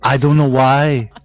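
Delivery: lightly put-on French accent; joking French accent, half-hearted; stereotype French accent. Joe explains himself in a light French accent. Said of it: "my stereotype French accent".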